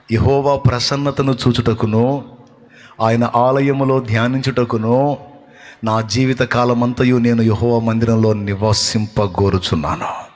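slow, deliberate recitation of the verse; solemn scripture reading. Acted. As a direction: read the psalm slowly and reverently. Preacher solemnly recites the psalm.

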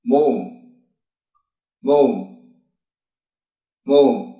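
"mồm" said clearly with closed-lip m sounds; Korean word demo. Shown as a demonstration. Teacher modelling the Korean word for body, clear. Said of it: "Ví dụ từ cơ thể tiếng Hàn là".

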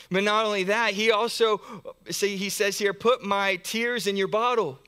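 loud, high, fervent preaching; rising preaching. Real, not acted. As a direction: lift the voice and proclaim it. Preacher building to a climax.

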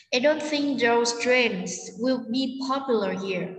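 slow repeat with "don't", "think", "trains", "popular" stressed; sentence stress. Shown as a demonstration. Teacher repeating for students, stressed "don't", "think", "trains", "popular". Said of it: "vậy chúng ta nhấn trọng âm".

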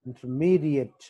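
ఇంటర్మీడియట్ with the stress on "mee"; ఇంటర్మీడియట్, weight in the middle. Shown as a demonstration. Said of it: "ఎం దగ్గర stress mark".

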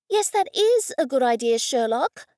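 snapped. Acted. Goldie snapping at the detective, sarcastic and sharp. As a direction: bite it off at him, mocking. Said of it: "I snapped".

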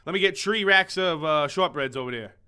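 imitated hometown accent, TH turned to T. Ordering shortbreads like people back home, hometown accent. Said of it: "back where I'm from that would".

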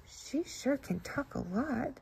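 a hushed slow aside; whispered. Acted. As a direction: murmur it so the goose won't hear. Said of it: "whispered Bouncer".

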